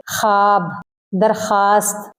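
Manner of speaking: ख्वाब said as khaab with no w; silent w. Shown as a demonstration. Teacher showing the correct reading with the w silent. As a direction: drop the w in ख्वाब. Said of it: "ऐसे नहीं पढ़ेंगे".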